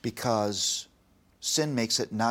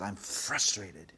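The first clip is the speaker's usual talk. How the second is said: slow, drawn-out retold frustration; imitating a frustrated child; frustrated daughter; slower than usual. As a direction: stretch the word out in mild exasperation. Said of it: "a burst of frustration".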